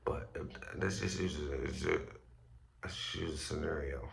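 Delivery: tripping over words, just woke up; groggy stammer restarting the sentence; stuttering. Real, not acted. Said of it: "I'm stuttering and shit. I just woke up".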